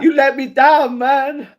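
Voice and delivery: imitating a disappointed man; mock disappointed fighter. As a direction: play the sulking loser who feels betrayed. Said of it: "He's like".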